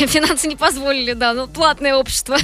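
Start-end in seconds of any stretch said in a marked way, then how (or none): 0.1-1.1 laughing through the repeat. Real, not acted. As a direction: echo the joke with a laugh. Echoes joke laughing.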